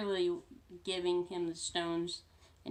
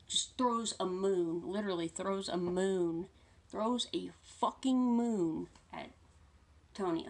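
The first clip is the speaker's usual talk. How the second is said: awed excitement; 4 dB louder than usual. Real, not acted. Gushing over favourite scene.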